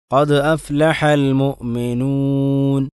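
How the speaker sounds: slow, drawn-out tajweed chant; slow Quran recitation. Shown as a demonstration. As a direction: recite carefully, stretching each vowel.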